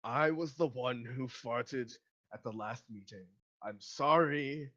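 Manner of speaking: slow, drawn-out confession; lightly voiced old man owning up; older gentleman. Old gentleman confessing to the meeting, slow mock apology. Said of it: "the gentleman who cast Zone of Truth says".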